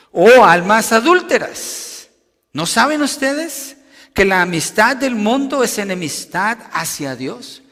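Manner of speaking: loud, high scriptural rebuke; negative exclamation. Shown as a demonstration. Preacher voicing Santiago rebuking the brethren, exclaimed reproach. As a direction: cry it out as an emphatic reproach, drawing out the opening. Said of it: "Santiago está hablando así, en negativo".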